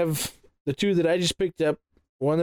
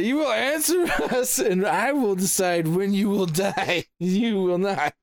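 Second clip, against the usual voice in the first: laughing threat, higher at the start; dwarf threatening with a laugh; 4 semitones higher than usual. Acted. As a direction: menace them while chuckling. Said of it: "I say".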